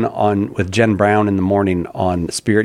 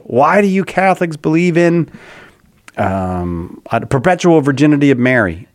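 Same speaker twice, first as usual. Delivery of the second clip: raised, grumpy demanding question; mad; 3 semitones higher than usual. Shown as a demonstration. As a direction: ask it like a grumpy caller. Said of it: "I'm saying it like you're mad at us".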